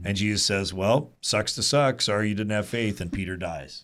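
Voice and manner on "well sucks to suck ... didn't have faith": mock callous. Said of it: "No, that's not what happens".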